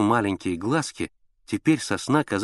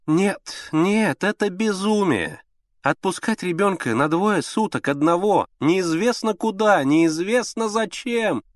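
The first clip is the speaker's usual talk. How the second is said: high, pleading anxious lady; fussy mother; 8 semitones higher, 4 dB louder than usual. A narrator's reading. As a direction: plead like a fretful invalid mother. (капризная встревоженная мать)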